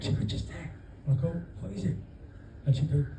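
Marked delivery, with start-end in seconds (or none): 0.2-0.7 hushed, pointing it out softly; wife whispering on a nature walk, hushed. Retold or imitated. 1.6-2.0 whispered back, higher; husband whispering back to his wife, hushed. Retold or imitated.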